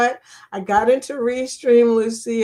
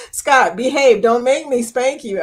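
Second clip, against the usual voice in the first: mock stern; 2 semitones higher, 5 dB louder than usual. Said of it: "I sound serious".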